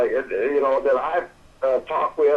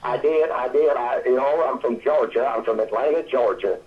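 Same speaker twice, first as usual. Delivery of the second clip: put-on old Southern accent. Shown as a demonstration. Showing the host how he talked as a Georgia boy, in a Southern accent. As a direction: let the Southern accent from Atlanta come through. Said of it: "I did used to talk like this".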